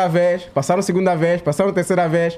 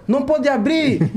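stern cop; 6 semitones higher, slower than usual. Retold or imitated. Policeman forbidding opening the car.

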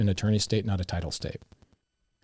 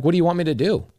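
exasperated; 7 semitones higher, 3 dB louder than usual. Retold or imitated. Exasperated reply to wife.

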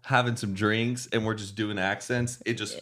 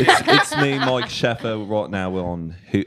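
laughing start on a mock British accent; hammed-up British, settling lower; 3 semitones lower, 4 dB louder than usual.

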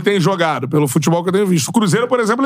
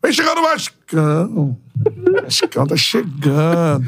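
commentator voice; 3 semitones lower than usual. Pretend. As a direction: call it like a radio commentator. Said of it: "eu já narrando em São Januário".

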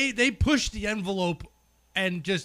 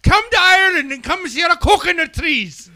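loud, high put-on sales cry; mock tourism pitch; 8 semitones higher, 8 dB louder than usual. Ridiculing coconut in Irish candy, loud high mock pitch. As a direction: belt it out like an absurd advert.

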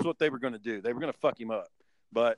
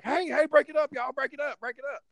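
high yelling that fades off at the end; retold break-it-up shout; 12 semitones higher, 3 dB louder than usual. Bobby yelling at the fighters to break it up. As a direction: break up the fight, loud then dropping away. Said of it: "he's like".

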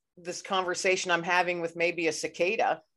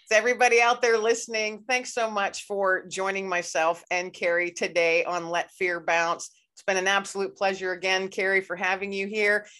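podcast sign-off; 3 semitones higher than usual. Real, not acted. Host thanks listeners and guest, upbeat sign-off. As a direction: send the listeners off warmly.

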